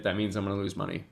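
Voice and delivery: ordinary talk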